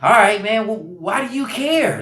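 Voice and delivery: slow, gentle mock calm question. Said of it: "It was so calm".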